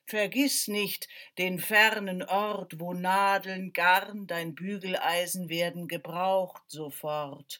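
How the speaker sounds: the wind gently reminds the tailor of his duty. Acted. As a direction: breathe the words like a drifting wind.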